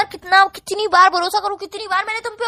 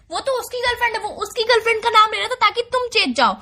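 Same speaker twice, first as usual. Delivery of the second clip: mock boyfriend excuse; 4 semitones higher than usual. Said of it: "यही dialogue बोल दोगे".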